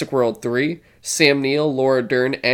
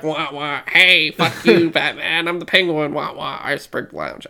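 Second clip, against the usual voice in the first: hammed-up squawking Penguin; mock villain whine. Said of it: "being the Penguin and be like".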